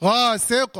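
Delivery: slow غاسق ending on a bare q; stopping with sukun. Shown as a demonstration. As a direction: drop the -in ending, stop غاسق on q. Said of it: "بالسكون".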